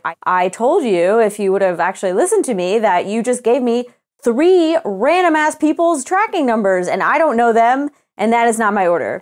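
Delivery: retold anger, each point spelled out; mildly mad, leaning on key words; retold exasperation. Customer retelling her complaint to customer service, retold exasperation. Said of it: "So then I get mad".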